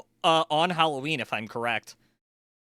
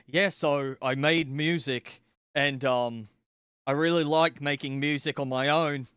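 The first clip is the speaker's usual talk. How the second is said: Impression of a musician. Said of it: "He literally sounds like down here".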